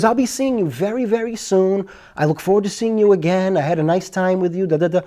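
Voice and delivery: lightly voiced polite woman, a little high; hint at a courteous caller from the past; imitated polite caller. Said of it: "so clear and so polite".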